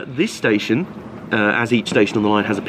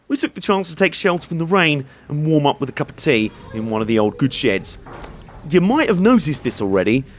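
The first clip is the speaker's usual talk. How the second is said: scripted narration, slightly higher and lively; travel voice-over; 4 semitones higher than usual. Acted. Presenter telling viewers about the ride to Rothley, voice-over narration.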